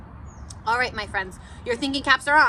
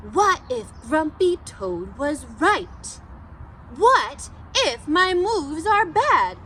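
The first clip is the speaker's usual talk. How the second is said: silly Pete voice; slower than usual. Acted. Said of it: "my silly Pete the Cat voice".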